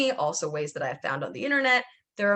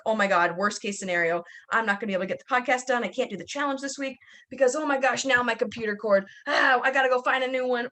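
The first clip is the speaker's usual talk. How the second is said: a hint of higher, rushed panic; mock panic; 4 semitones higher than usual. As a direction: replay the worst-case spiral, frantic. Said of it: "And I'm like".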